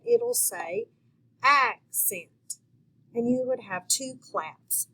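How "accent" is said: "accent" in two clear beats, ac-cent; split into syllables. Shown as a demonstration. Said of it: "clap it when you say it".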